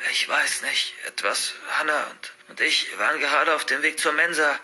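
halting, hushed, broken-off account; shaken. Acted. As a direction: grope for words in shock. Shocked Patrick recounts the attack. (stockend, verstört)

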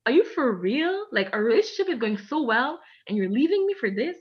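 retold, disbelieving cry at the ex; shocked disbelief. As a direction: replay the shock at the ex. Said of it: "I was so shocked".

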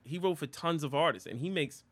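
blocked nose. Real, not acted. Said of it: "I can't breathe through my nose".

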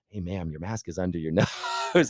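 breaking into a laugh before the last word; can't hold back a giggle while pointing it out; amused retold jab laughing at the punchline; laughing through it. Teasing attendant, laughing mid-line.

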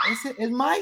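put-on high, surprised kid voice with a laugh; high child voice. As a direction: squeak it like a toddler. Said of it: "y me dice".

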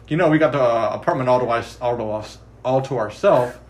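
light mock Midwestern accent on Marshall's line. Marshall to Lily about the empty apartment, in a mock Midwestern accent. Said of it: "What was that accent?".

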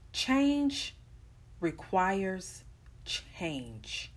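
each word of Change requires change set apart with pauses; slow spaced mantra. Shown as a demonstration. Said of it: "I need for y'all to say that with me".

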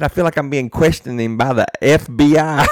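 lightly imitating a buddy fed up with questions; mock indignant friend; exasperated friend. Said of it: "that ain't doing it justice like how he did it".

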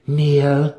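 a loud, sharp "Kneel"; commanding. A narrator's reading. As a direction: bark the order to the whole family. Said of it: "Malice commanded".

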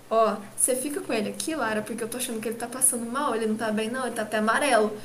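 lightly voiced mother, speaking low; mother confiding. Mother asks Lara to stay with him, confiding quietly. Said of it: "sua mãe virou pra mim e falou assim".

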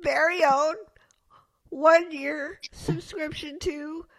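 slow, drawn-out prize reveal; game show host. Pretend. Mock prize announcement.

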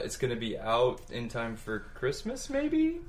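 rising question tone at the end; upspeak. Real, not acted. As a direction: end on a big upward lilt. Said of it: "It's upspeak".

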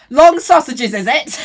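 a dry, knowing jab at the word long; sceptical quip. Retold or imitated. Friend retelling dinner, teasing: knowing sceptical quip. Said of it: "just looked back like".

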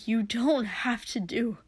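breathless whispered plea. Acted. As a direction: drop to a whisper, pleading. Pleading with his brother.

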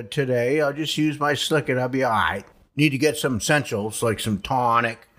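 folksy northern New England dialect; rambling rural New England accent. Shown as a demonstration. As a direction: talk like a backwoods New England Yankee. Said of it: "what's north of Boston and what they say".

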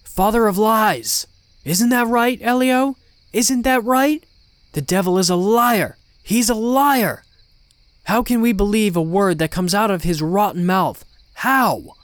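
loud, high, frantic denunciation; panicked father shouting in denial; screamed accusation. A narrator's reading. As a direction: rant desperately against a liar. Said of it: "my dad suddenly screamed".

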